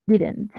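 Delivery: didn't with the middle d as a quick tap, "diran't"; pronunciación informal de didn't. Shown as a demonstration. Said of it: "solamente así se pronuncia". (didn't pronunciado como "diran't", con d suave)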